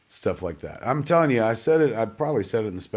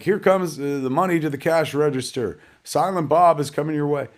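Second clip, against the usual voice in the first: lightly voiced director calling cues, higher; mock director's call; 5 semitones higher than usual. Filmmaker mocking his own set, mock calling out cues. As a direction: parody a director announcing the effects, pitched up. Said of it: "I'm not like".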